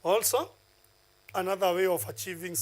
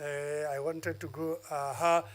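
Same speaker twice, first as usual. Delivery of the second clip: thinking-aloud hesitation; slower than usual. Shown as a demonstration. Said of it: "using some noises like humming and ha".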